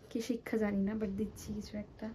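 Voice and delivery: a quick whispered joke to the camera; whispered aside. Real, not acted. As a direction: drop to a whisper for the punchline. Joking aside about teaching student.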